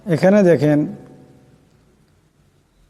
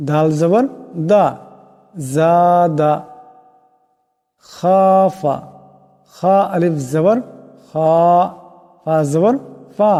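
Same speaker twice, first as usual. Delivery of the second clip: lilting letter-by-letter chant, each syllable rising then landing on the long vowel; sing-song spelling drill; much slower than usual. Shown as a demonstration. Teacher leading pupils through the alphabet, rhythmic recitation chant. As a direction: chant the letters like a Quran primer class.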